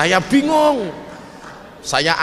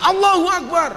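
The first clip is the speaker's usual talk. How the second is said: mock yell; 10 semitones higher than usual. Someone shouts outside the brothel during his sermon, mock yell. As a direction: call it out like a protester outside. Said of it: "ada orang teriak-teriak".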